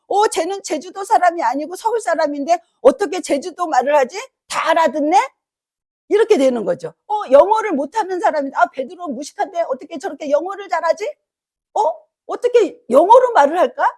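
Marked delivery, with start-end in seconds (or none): 0.1-5.2 amazed bystander. Retold or imitated. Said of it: "제주도에서 올라온 사람이 생각했을 때". 8.5-13.9 amazed onlooker. Retold or imitated. Acted amazed crowd quote.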